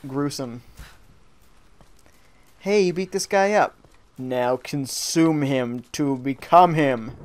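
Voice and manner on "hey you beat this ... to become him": lightly voiced creepy game announcer; a slightly slower sinister game narrator. Player mimicking the game telling him to eat the wolf, lightly creepy. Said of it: "Creepier when it's all".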